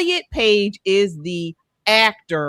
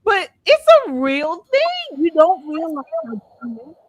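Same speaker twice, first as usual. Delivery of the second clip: real tearful break, voice pushed higher; choked up; 7 semitones higher than usual. Real, not acted. Telling cohost about passport stamp, real tearful choke. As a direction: fight back tears over coming home. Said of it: "But you're emotional".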